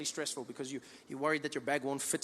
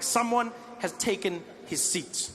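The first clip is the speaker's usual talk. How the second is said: slow knowing realization; 3 semitones higher, slower than usual. Retold or imitated. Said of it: "I'm like".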